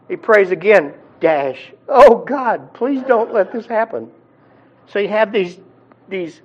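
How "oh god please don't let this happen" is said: mock pleading prayer. Rich man prays again.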